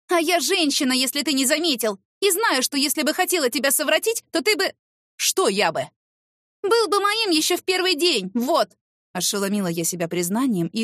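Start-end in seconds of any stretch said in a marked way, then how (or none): 0.1-8.7 defiant outburst. Acted. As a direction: throw it at him defiantly. Heated defiant retort. (с вызовом, высоко)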